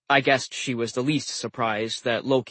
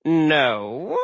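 strained patience; 3 semitones higher, 3 dB louder than usual. Acted. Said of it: "with strained patience".

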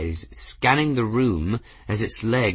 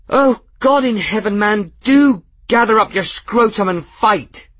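much higher and louder contemptuous snarl; 13 semitones higher, 9 dB louder than usual. A narrator's reading. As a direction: snarl in scornful fury. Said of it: "Gwen snarled".

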